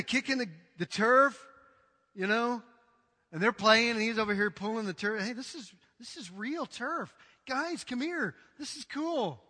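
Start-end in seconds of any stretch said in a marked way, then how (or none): 5.2-9.4 awed player, softly. Retold or imitated. Player gawking at turf.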